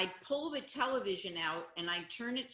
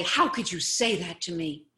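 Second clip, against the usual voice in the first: mock hurt whining; hurt, pleading complaint; upset; 6 dB louder than usual. Shown as a demonstration. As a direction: play it wounded and upset. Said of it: "I could get all upset and say".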